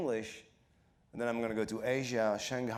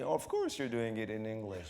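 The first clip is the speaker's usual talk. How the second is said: blasé; 2 semitones lower than usual. Retold or imitated. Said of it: "it's gonna be".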